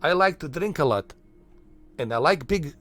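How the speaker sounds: hammed-up Eastern European accent; mock foreign accent. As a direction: play a freshly arrived immigrant with a thick, made-up Eastern European accent. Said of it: "then yeah, the accent would be there".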